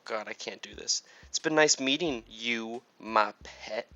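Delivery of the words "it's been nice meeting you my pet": put-on light country accent. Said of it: "I'm going, like, country now".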